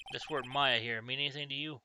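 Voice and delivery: put-on a touch of Southern-accented police detective; lightly voiced Southern accent. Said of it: "I gave him a southern accent".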